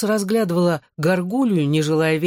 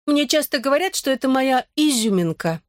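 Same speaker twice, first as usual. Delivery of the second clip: pleased fairy voice; 7 semitones higher than usual. A narrator's reading. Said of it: "довольно захихикав".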